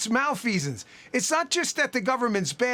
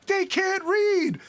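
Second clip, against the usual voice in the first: Joe Clark outburst; 6 semitones higher, much slower than usual. Retold or imitated. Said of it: "that Morgan Freeman movie about Joe Clark".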